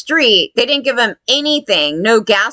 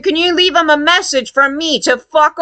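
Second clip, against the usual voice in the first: raised, defiant shout of the message; angry shout; 5 semitones higher than usual. Retold or imitated. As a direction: fire it off like you mean it. Retold angry message to mayor.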